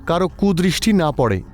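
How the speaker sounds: polite messenger passing on instructions; servant delivering a message. Acted.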